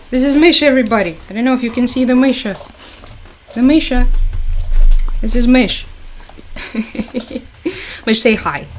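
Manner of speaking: high doting pet voice; pet talk. Real, not acted. Showing the dog to chat.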